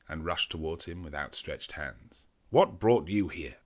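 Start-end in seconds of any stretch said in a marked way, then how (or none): 2.5-3.6 slow, louder happy question; delighted greeting; glad cry. A narrator's reading. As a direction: call out in surprised welcome. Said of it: "I cried as our hands met".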